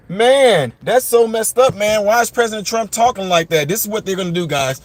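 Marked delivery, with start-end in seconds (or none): 0.1-3.7 mock outraged viewer. Viewers mocking Trump's language, imitated in mock outrage. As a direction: play a scandalised viewer, hammed up. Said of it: "you'll say something like".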